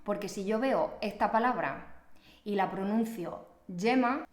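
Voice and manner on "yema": "yema" with a y sound in place of gema's throaty g; mispronounced g. Shown as a demonstration. Teacher showing a misreading of the written word, y sound. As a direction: say "yema" starting with a y. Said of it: "estoy cometiendo un error de pronunciación".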